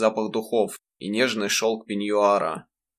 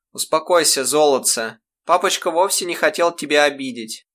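higher, gentle mother's voice; a mother comforting her son, tender; tender coaxing; 5 semitones higher, 4 dB louder than usual. Acted. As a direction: coax a smile from a child.

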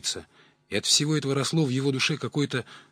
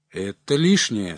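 slow, stern refusal; 4 dB louder, slower than usual. Acted. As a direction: refuse firmly and slowly. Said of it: "строго сказал пожилой".

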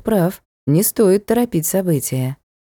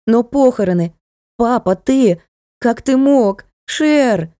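angry reproach; 5 semitones higher than usual. Acted. Daughter furious at betrayal.

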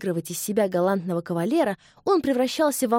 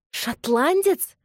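much higher, louder, drawn-out question; astonished exclaim; 8 semitones higher, 4 dB louder, much slower than usual. A narrator's reading. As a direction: cry out in disbelief. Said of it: "воскликнула она". (изумлённо, выше, громче и протяжно)

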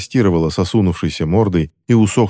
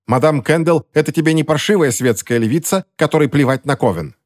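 put-on higher-pitched old woman's rebuke; scolding old woman; 7 semitones higher than usual. A narrator's reading. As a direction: scold like an indignant elder, pitch lifted. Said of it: "ответила ей какая-то старуха".

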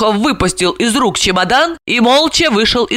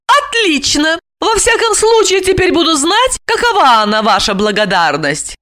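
higher, offended and sarcastic; bitter sarcasm; 10 semitones higher than usual. A narrator's reading. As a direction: throw his gratitude back at him. Alexandra resents his ingratitude. (обиженно, с сарказмом)

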